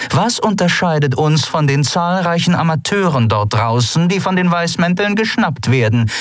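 a sharp captain testing her men; Zaylar's voice. Acted. Captain grilling Sephiron about their success, commanding.

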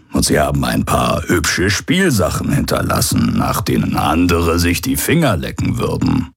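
lightly voiced sly old pirate, amused; a hint of a grinning rogue; mild smug pirate; old pirate hologram.

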